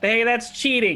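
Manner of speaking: high-pitched shout. In a game, a player uses a free action to shout, shouting. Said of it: "free action shout".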